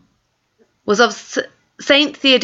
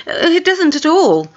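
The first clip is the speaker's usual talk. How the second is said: high, hurried flustered denial; a guilty girl trying too hard to sound casual; flustered girl covering a secret, a touch guilty; 9 semitones higher than usual. A narrator's reading. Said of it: "look very flustered and guilty".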